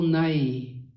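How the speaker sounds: Nighy said as one syllable, "nye"; first attempted pronunciation. Shown as a demonstration. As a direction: say Nighy to rhyme with "sky", no g. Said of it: "That's how they pronounce it".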